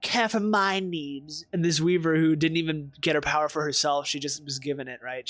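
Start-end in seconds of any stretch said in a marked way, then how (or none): 0.0-1.5 grovel like a lowly worm. Retold or imitated. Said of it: "It's like".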